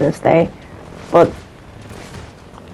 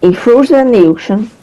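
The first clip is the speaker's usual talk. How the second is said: higher, disbelieving retelling with a rising end; incredulous repeat; 6 semitones higher than usual. Real, not acted. Friend retelling where the kid threw the shoes, pitched higher in disbelief. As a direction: say it again as if you still can't believe it.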